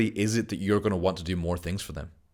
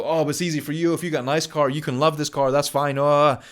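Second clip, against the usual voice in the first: high-pitched whiny mock objection; 6 semitones higher, 5 dB louder than usual. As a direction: whine it up high like a sceptic. Listener objecting, mocking voice.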